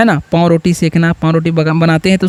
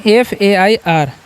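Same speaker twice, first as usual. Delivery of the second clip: spelled out slowly; much slower than usual. Shown as a demonstration. Spelling out letters for students.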